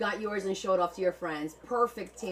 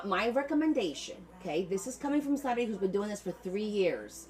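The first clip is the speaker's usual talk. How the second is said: usual speaking voice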